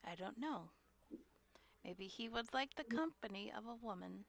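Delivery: sly whispered reply; voiceless conspiratorial murmur. Acted. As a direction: breathe it as a secret aside. Player whispers back to Dravis.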